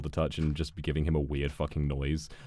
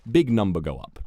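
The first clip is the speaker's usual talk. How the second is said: dumb excited; 3 semitones higher, 9 dB louder than usual. Acted. Caveman joke about XP.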